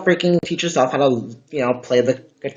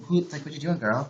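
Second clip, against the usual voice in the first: quick, softer retold text; quoting a texter; 3 semitones higher, 7 dB quieter than usual. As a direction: rattle off the text lightly. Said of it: "And they're like".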